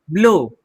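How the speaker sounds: ब्लो with a long o, silent w; correct pronunciation. Shown as a demonstration. Teacher reads for learners, ब्लो with silent w. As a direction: end ब्लो on a pure o. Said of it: "डब्ल्यू को नहीं पढ़ते हैं".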